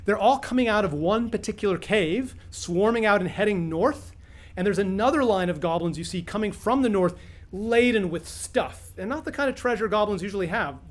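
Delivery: storytelling voice, drawing the players in; game master's scene setting. Acted. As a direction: paint the scene for the table like a dungeon master.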